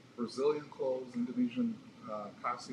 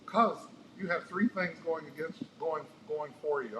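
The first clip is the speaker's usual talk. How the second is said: put-on Indian accent; 4 semitones higher, slower than usual. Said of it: "in that great Indian accent of his".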